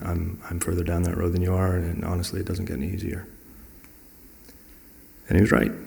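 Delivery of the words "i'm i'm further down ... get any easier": softer, frank confiding tone; level with a friend quietly; honest sympathy. Retold or imitated. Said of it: "he was very honest with me".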